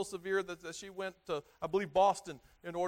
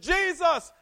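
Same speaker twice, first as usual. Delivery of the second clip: high shouted name, calling out; screaming; 10 semitones higher, 9 dB louder than usual. Retold or imitated. Blind Bartimaeus crying out to Jesus, loud high shout. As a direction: cry out the name to be heard. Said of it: "And he said".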